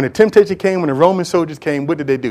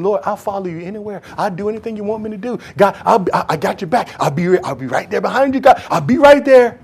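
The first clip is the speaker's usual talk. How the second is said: soft, fast eager vow; lightly voiced loyal Peter; boastful Peter; 2 semitones higher, 3 dB quieter than usual. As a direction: promise it eagerly as proud Peter. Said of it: "How did he go from".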